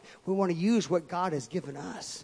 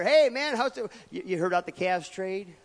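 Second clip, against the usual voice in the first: breezy foyer greeting; 2 semitones higher, 4 dB louder than usual. Retold or imitated. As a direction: toss off a casual hello. Mimicking foyer small talk.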